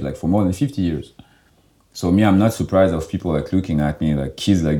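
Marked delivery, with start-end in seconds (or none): none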